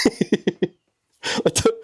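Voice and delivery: real high, breathless nervous giggle into speech; nervous laughter. Real, not acted. Vlogger rattled by a nerve-wracking job, laughing nervously. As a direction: laugh nervously while starting to talk. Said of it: "I don't know why I'm laughing".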